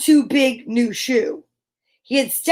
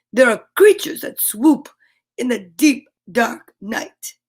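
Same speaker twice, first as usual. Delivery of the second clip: spooky vampire voice. Acted. Dracula warns spookily.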